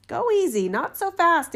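alarmed. A narrator's reading. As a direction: hold the spirit off in alarm. Student calms spirit.

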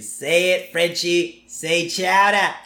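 lightly hammed-up bully goading someone; mock bullying demand. Freddie bullying the waiter.

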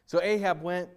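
dramatic Bible reading to a congregation; scripture reading. Acted. Pastor reading First Kings aloud to the church, dramatic. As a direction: read the story with feeling, voicing the prophets.

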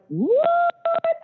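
high, drawn-out incredulous what; shocked, disbelieving what; stunned what. Retold or imitated. Reacting to caller calling black women ugly, stunned high what.

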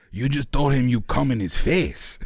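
slow, drawn-out retold quote; amused drawn-out reveal. Storyteller voices friend revealing the blunder, slow and drawn out. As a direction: stretch it out slowly for the punchline.

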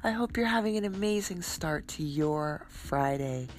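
talking with a blocked nose; congested, a head cold in the voice; stuffed-up nose. Real, not acted. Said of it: "a little stuffed up this morning".

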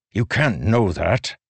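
firm indignant denial; defiant protest. A narrator's reading. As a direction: refuse to accept it. Dalinar protests.

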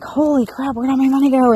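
shocked at her own spending; mock shock. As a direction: react to the empty wallet. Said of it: "I'm like".

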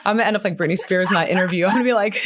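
laughing through it, quick and high; chuckling at her own joke, fast. Real, not acted. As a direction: rush it out while giggling. Joking about crying on camera.

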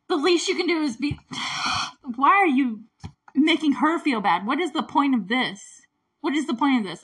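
fed-up, indignant pleading; exasperated. Real, not acted. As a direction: scold him on her behalf. Exasperated defence of film heroine.

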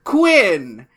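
slow, grand movie trailer narration; dramatic announcer voice. Pretend. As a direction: announce it like an epic tale. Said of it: "I have this announcer voice in my head".

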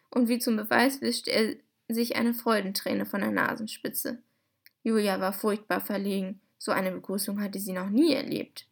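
lively, clearly articulated storybook reading; story narration. A narrator's reading. Host reading a novel excerpt to podcast listeners, expressive story narration. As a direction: read it out like a children's audiobook.

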